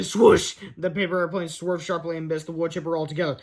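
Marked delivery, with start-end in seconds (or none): 0.0-0.6 loud, sudden sound word; punched onomatopoeia; swoosh effect. A narrator's reading. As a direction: burst out the sound of a swerve.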